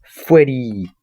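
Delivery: mock yell from little lungs; tiny child's yell. Retelling a toddler pointing and yelling the bear's name, mock yell. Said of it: "yelled ... at the top of his tiny lungs".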